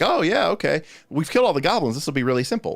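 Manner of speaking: lightly sending up the smug party; mock overconfident. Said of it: "the group came into the goblin caves and was kinda like".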